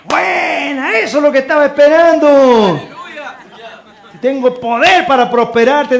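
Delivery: loud, ringing pulpit voice; full-force preaching. Acted. Pastor voicing God's promise to the congregation, loud preaching. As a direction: proclaim it to the whole church.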